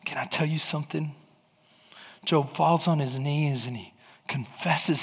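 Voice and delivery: low, soft confiding delivery; hushed preaching. Real, not acted. Preacher confides Job's outcome to congregation, hushed and low. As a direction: bring it right down after the climax. Preacher drops down after climax.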